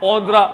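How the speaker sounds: ओंत्रा with a nasal "on" start; correct pronunciation. Shown as a demonstration. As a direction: say ओंत्रा, not एंटरप्रेन्योर. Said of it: "ओ का तो कोई रिश्ता ही नहीं". (ओंत्रा, ओ से शुरू)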